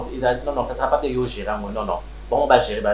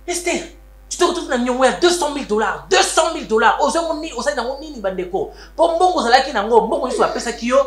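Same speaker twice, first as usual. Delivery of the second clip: higher, pressing accusation; heated reproach; 5 semitones higher than usual. Acted. Confronting Esther over the two hundred thousand dollar debt, heatedly. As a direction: hammer her about the debt.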